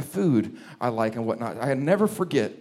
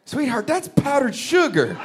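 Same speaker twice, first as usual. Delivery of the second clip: gentle correction; 10 semitones higher than usual. Retold or imitated. Husband breaks news gently.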